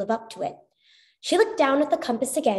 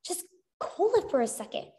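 urgent call; 10 semitones higher than usual. A narrator's reading. She calls to stop Chuck.

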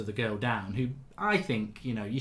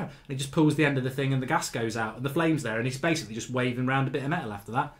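ordinary talk

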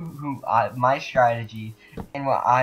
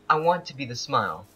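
song words recited without singing; reading out lyrics; 2 semitones lower than usual. Shown as a demonstration. Player showing teammates the friendship song, spoken recitation. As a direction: read the lyrics line by line. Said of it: "I'll read them, I won't sing them".

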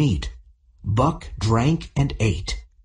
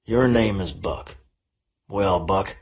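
friendly; 4 semitones lower than usual. A narrator's reading. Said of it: "he said in a friendly voice".

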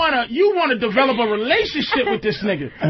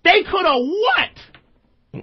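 put-on higher, upset girlfriend asking why he ran; mock his girl's frantic questions, pitched up; girlfriend's panicky quote; 5 semitones higher than usual. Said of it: "And goes".

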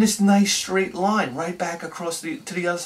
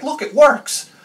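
high, loud shout of delight; thrilled; 10 semitones higher, 7 dB louder, slower than usual. Retold or imitated. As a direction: yell like a kid whose toy boat works. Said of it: "I was so excited".

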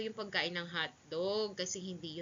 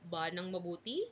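mother Aling Tess. Acted. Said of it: "Sabi ni Aling Tess".

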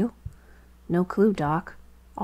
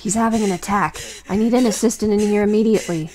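raised, urgent voice calling for an assistant; urgent call for help; 3 semitones higher, 4 dB louder than usual. Acted. Doctor shouting for help as patient panics, urgent. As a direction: sound the alarm to the staff.

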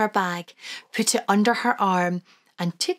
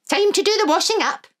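put-on high, lilting old Scottish granny; Wee Granny voice; 12 semitones higher, 4 dB louder, faster than usual. Granny to the children, high and fond.

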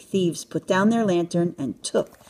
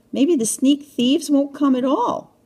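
mildly anxious, higher voice; lightly acted fretful musing; worried thought; 8 semitones higher, 3 dB louder than usual. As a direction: think it aloud with a touch of worry. Stanley worries while waiting alone.

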